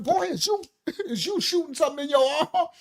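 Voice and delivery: grandma voice through laughter; laughing grandma. Retold or imitated. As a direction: ask it while cracking up. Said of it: "My grandma probably grabbed my arm".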